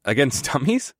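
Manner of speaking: mild snickering disbelief. Acted. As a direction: scoff with a small snicker. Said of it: "I snickered".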